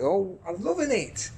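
hammed-up sports commentator impression; slow, drawn-out excited commentary; Sid Waddell. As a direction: stretch the player's name out dramatically. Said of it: "that's my attempt at Sid Waddell".

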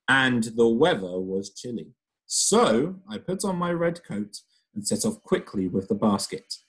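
lively storytelling voice, characters acted out; reading to children. Teacher reading a story aloud to her pupils, lively storybook voice. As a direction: read it like a picture book to a class.

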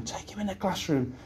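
a light take on a flustered teacher; old teacher's fuss. Retold or imitated. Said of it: "she says".

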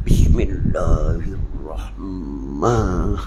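very slow, low Bismillahirrahmanirrahim, every syllable stretched; mock drawn-out recitation. Shown as a demonstration. Teacher mocks needless show in prayer, very slow and low. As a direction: ham up a showy, over-pious recitation. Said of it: "Dok payah buat gini".

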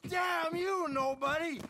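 put-on furious drunken yelling; angry shouting. Drunk old gunslinger rages at rivals.

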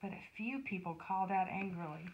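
put-on expressive storyteller reading to children; children's story reading. A narrator's reading. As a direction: read it as a Bible story for kids, with measured pauses. Reads a Bible story to children.

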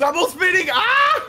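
yelled move name. Pretend. Yells move name, cries out.

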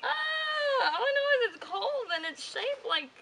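very high, loud, slow disgusted yell; horrified shout. Real, not acted. Reaching into the turkey, she yells in disgust. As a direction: scream at the gross thing.

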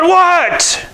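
high, sharp alarmed question; stunned what. Retold or imitated. Father hearing his son was nearly hit, high startled cry. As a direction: snap it out in shock.

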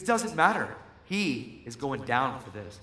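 retold sassy refusal, emphatic then slowing; real attitude. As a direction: imitate her digging in with attitude. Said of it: "Now she's got real attitude".

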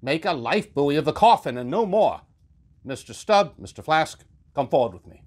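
huffy rebuke. Acted. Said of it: "He goes off in a huff".

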